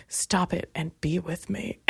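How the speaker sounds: low, breathy come-on whisper; mock seductive whisper. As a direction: whisper it like a sleazy booty call. Mocking his come-on.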